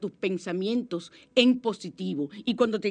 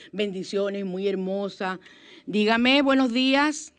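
demo thanks; 3 dB louder, slower than usual. Shown as a demonstration. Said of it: "de una vez me sale ahí el gracias".

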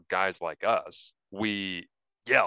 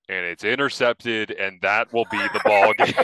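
disappointed home-radio call; 5 dB louder than usual. Retold or imitated. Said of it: "sounded like I was doing the Red Blacks home radio broadcast".

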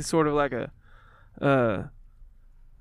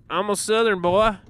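put-on Southern redneck accent; 5 semitones higher, 3 dB louder than usual. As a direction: play a redneck Southern boy. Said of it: "Gotta be a redneck".

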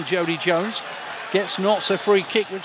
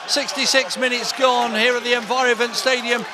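raised, lively goal call; excited goal call; 3 semitones higher than usual. Real, not acted. Goal celebration commentary.

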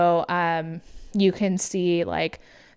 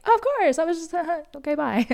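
flustered Fran; 10 semitones higher, faster than usual. Retold or imitated. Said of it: "And then Fran's like".

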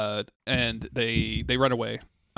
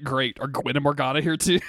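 high sarcastic complaint; 4 semitones higher, 3 dB louder than usual. Retold or imitated. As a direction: drip with sarcasm. Sarcastic Arthur.

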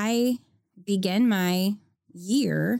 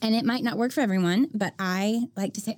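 ordinary talk

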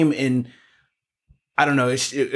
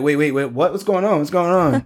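retold bewilderment; 3 semitones higher than usual. Couple sees nurse shaking her head, retold bewilderment. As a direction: act out being caught off guard. Retold confusion at bad news.

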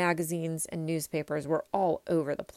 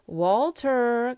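louder, higher commanding call; yelled call; 6 semitones higher, 7 dB louder than usual. A narrator's reading. Major catches boy with bugle, yelling. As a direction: call out sharply to stop the boy. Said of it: "Sorry to yell at you".

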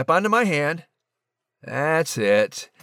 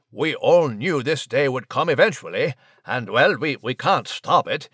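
a hint of a fussy English gentleman; polite, flustered British chap on the phone; posh British mouse. Nigel on phone with sister.

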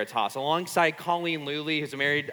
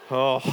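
deflated sigh; 5 semitones lower than usual. Retold or imitated. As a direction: let the air out after the bad news. Just told of a rival guy.

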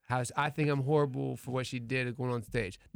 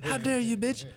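mock outrage; 7 semitones higher than usual. Retold outrage at being insulted.

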